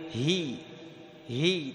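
soft هي on a push of air; isolated, breath-led "hi" for هي. Shown as a demonstration. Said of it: "تدفع نفس الهاء".

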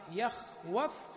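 يخوف drawn out slowly and softly, rising at the end; slow demo of يخوف. Shown as a demonstration. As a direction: spell out يخوف slowly for the class. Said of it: "نقلنا حركة الواو".

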